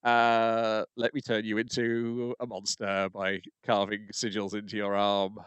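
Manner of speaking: lightly voiced sinister villain. Voicing the villain.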